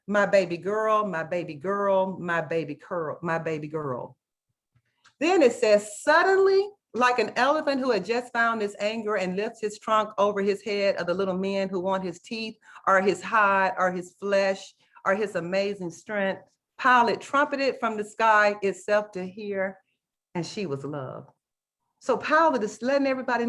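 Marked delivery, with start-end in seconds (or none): 0.1-4.2 low refrain, sinking and softening with each repeat; literary reading. Acted. Teacher reading a novel's refrain to colleagues, low literary reading. 6.0-21.3 dramatic reading. Acted. Teacher reading a novel passage to teachers, dramatic reading.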